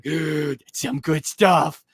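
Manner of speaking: slow, drawn-out stoner voice; a lightly voiced stoner dude; imitating her. She grabs the thing, drawling like a stoner. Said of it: "she's like".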